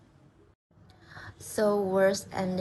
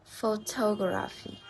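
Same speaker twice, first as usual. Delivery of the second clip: "Photography" with the beat on TOG; stress on third-last syllable. Shown as a demonstration. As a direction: say "Photography" as pho-TOG-raphy. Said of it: "we stress in the third last syllable".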